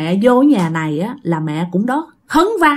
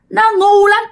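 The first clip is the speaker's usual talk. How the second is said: sharp, much higher scornful jab; scornful ghost; 10 semitones higher, 4 dB louder than usual. Retold or imitated. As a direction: spit it out with disdain. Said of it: "bà này nói". (giọng ma cao vút, khinh miệt)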